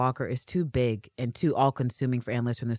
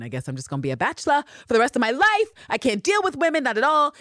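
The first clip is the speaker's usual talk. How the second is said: higher, faster, hammed-up despair; exasperated Anne Lister; 10 semitones higher, faster than usual. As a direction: throw up her hands. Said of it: "like we've seen in different entries".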